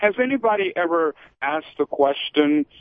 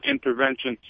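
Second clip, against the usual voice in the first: intervention said with a higher, softer sneer; distaste for the word; 8 semitones higher, 4 dB quieter than usual. Real, not acted. Host condemning US foreign policy, disdainful. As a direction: spit out intervention like a dirty word. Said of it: "I don't even like that word".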